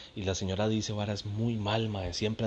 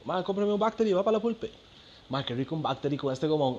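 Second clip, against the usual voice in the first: mimicking the friend; 9 semitones higher, faster than usual. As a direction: ham up the energy drink fan. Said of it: "El mae".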